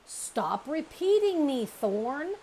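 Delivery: high, loud rebuke to a copycat brother; annoyed snap. Acted. Sister bear snapping at her brother Thorn for repeating her, loud and high. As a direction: cut him off sharply.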